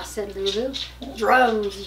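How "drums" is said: yelled. Acted. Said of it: "yelled Wally".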